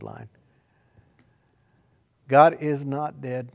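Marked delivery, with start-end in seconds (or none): 2.3-3.5 God is not dead, slow and loud; preacher declaring to the church; slow, loud proclamation. Acted. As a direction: pound each word of God is not dead.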